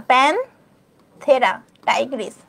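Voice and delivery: প্যানথেরা টাইগ্রিস stretched out very slowly; slow pronunciation demo. Shown as a demonstration. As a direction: say প্যানথেরা টাইগ্রিস slowly so students can copy. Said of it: "এটা হচ্ছে প্যানথেরা". (ধীরে টেনে উচ্চারণ)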